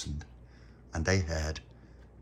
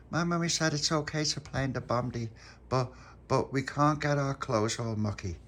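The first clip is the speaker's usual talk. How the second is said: put-on little girl voice; 6 semitones higher than usual. Dolores telling Pop her mum's rule, high little-girl voice. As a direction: pipe it up like a small child.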